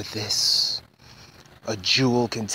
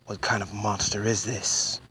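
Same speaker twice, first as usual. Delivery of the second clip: normal talking voice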